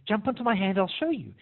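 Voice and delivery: a touch of sweet luring; gentle coaxing. Retold or imitated. Person luring the little bird onto a hand, lightly acted high coaxing.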